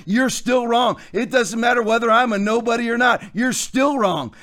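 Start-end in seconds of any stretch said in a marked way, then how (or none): 0.1-1.0 raised, forceful declaration; emphatic shout. Real, not acted. Preacher shouting at pastors who locked down churches. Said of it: "It doesn't matter how I say it". 3.3-4.3 drawn out, word by word; slow and deliberate. Real, not acted. Preacher slowly telling pastors they are still wrong. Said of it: "It doesn't matter how I say it".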